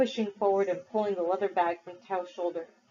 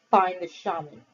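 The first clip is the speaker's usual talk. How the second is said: pleading; 4 dB louder than usual. Acted. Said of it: "he pleaded".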